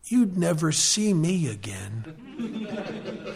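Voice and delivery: laughing punchline. Real, not acted. Joke punchline to AA room.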